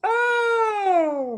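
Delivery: high, strained gasp; sudden choke. Real, not acted. Comedian choking on boba mid-interview. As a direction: catch your breath after choking.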